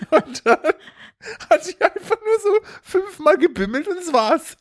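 very high, squeaky retold heartbreak; hammed-up whimper of disappointment; mock-tearful letdown. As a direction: wail it like a let-down child. Reliving childhood letdown, voice climbs high.

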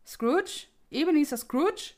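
high, loud call from the next room; a ghost's voice calling Scrooge from the next room, loud. A narrator's reading. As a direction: summon him through the wall. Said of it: "eine Stimme ... die ihn rief".

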